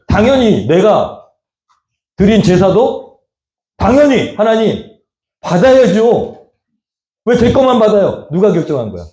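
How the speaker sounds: angry protest. Acted. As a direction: play Cain protesting his rejected offering, mildly angry. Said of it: "화가 났어". (억울해서 따지는 화난 말투)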